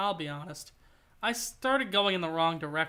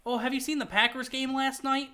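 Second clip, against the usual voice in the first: a second go at the Wisconsin accent, higher and more committed; 5 semitones higher than usual. Shown as a demonstration. Streamer retries the Wisconsin accent after a bad try, fuller Wisconsin accent. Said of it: "switch that on and off whenever you want".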